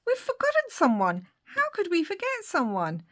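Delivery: high, hammed-up alarm; mock panic. Thinking a character was left out, mock panic.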